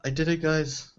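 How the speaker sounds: high, loud triumphant cry; excited. Real, not acted. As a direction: announce the win with joy. Celebrating getting professor title.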